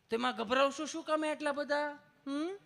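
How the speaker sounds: high, sweet coaxing tone; coaxing nurse. Retold or imitated. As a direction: soothe a nervous patient like a nurse. Nurse coaxing nervous patient. (નર્સનો લાડથી સમજાવતો અવાજ)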